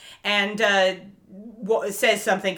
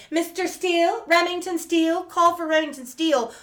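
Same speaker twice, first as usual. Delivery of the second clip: high sing-song paging call, higher pitch; bellhop calling out; 8 semitones higher than usual. Retold or imitated. Bellhop paging Remington Steele through the hotel, sing-song call. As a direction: page the guest across the lobby. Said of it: "She's walking around the hotel going".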